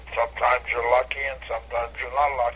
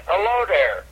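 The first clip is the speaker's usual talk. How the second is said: catchphrase greeting; 6 semitones higher than usual. Retold or imitated. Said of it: "very quickly I said".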